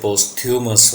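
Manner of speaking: posthumous said as post-HYOO-mus; mistaken spelling pronunciation. Shown as a demonstration. Teacher shows students how the word seems to read, posthumous as post-hyoo-mus. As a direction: say posthumous as post plus humous, as it looks. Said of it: "pronunciation word की ऐसी लगती है".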